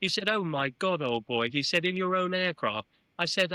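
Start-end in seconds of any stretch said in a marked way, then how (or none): 0.3-1.5 mock English gentleman exclamation; Sir Chips Keswick. Arsenal chairman reacting to his guest, English gentleman voice. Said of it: "spoke in a very English gentleman voice". 1.9-2.9 higher-pitched English gentleman question; Sir Chips Keswick. Retold or imitated. Arsenal chairman asking about the flight, English gentleman voice. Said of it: "spoke in a very English gentleman voice".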